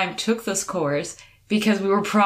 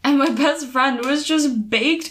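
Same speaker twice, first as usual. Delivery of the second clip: exclaiming; 7 semitones higher than usual. Real, not acted. Exclaims about baked friend.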